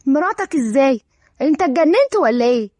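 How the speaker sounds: mildly shocked challenge. Acted. Aunt hears of nephew's marriage, shocked. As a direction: question him in disbelief. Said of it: "هالة بصدمة".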